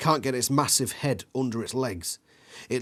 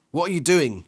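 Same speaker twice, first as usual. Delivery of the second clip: loud, higher, frantic yell; 5 semitones higher, 6 dB louder than usual. A narrator's reading. Kid yells at a friend mid-chase, panicked. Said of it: "you yell".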